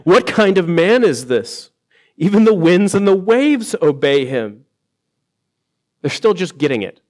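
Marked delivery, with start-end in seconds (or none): 0.1-4.7 amazed disciples. Retold or imitated. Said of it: "they asked".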